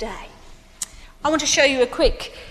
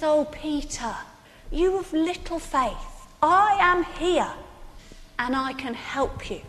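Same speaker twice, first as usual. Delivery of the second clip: softer, tender reassurance; gentle Jesus; 3 semitones higher, 5 dB quieter than usual. Retold or imitated. Jesus tenderly reassures the sinking Peter, softer. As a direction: speak gently to a frightened friend. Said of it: "He says".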